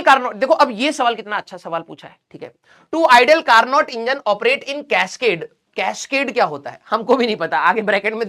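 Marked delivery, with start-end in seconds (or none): 2.9-5.5 reading the question out very slowly. Shown as a demonstration. Teacher reads the exam question to students, very slow. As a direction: drag out each word of the question.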